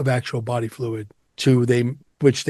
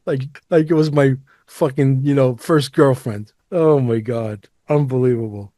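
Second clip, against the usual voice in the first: excited rave; 2 semitones higher, 5 dB louder than usual. Real, not acted. Raving about smuggled ice.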